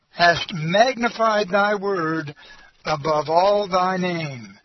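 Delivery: slow, measured reading of the verse; scripture reading. Acted. Preacher reading scripture to the congregation, measured and slow. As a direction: read the Word with reverence.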